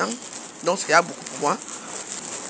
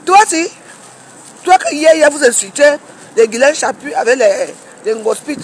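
sharp, raised voice, higher and louder; heated outburst; 4 semitones higher, 4 dB louder than usual. Real, not acted. Scolding Rêve Ndiaye over Facebook hypocrisy, heated outburst. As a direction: lash out at her in indignation.

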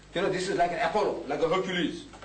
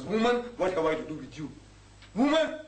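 mock harsh rebuke. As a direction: throw the last word out like an insult. Jesus quoted insulting his mother.

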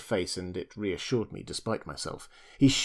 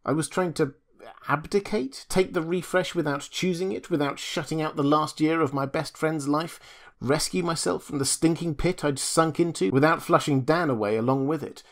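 higher throughout, pleading and upset; agitated pleading; 6 semitones higher than usual. Acted. Julius explaining his drowning to the doctor, upset. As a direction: pour out the excuse, desperate.

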